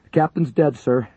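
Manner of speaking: very high, loud yell. A narrator's reading. Paramedic yelling the news to the major. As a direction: repeat it over the noise. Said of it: "Lincoln yelled".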